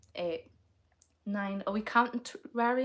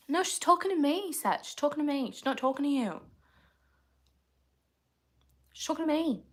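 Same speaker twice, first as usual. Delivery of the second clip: mock squabble; 6 semitones higher than usual. Playful squabble with chatter Seth.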